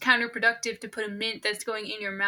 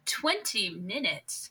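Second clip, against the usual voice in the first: slow disbelief; much slower than usual. Real, not acted. Slow incredulous echo.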